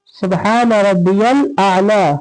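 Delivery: slow prostration tasbih; tasbih recited. Shown as a demonstration. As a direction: recite calmly. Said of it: "सजदे में क्या पढ़ते हैं?".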